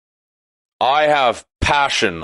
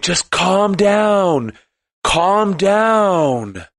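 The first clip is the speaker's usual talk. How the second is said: higher, very slow and drawn out, a sing-song mock soothing; mocking calm down; 6 semitones higher, much slower than usual. Mimicking the zenned out nihilist telling everyone, mock soothing. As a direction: parody someone who always says calm down. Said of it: "Always saying".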